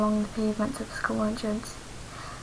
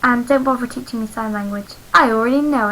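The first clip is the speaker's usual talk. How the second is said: smug; 7 dB louder than usual. A narrator's reading. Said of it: "I smugly declared".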